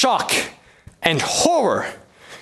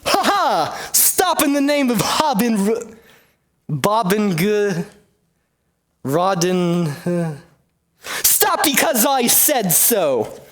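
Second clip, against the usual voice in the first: flustered herald; 2 semitones higher, slower than usual. Acted. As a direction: bluster through the name, then stall. Herald stumbles over proclamation.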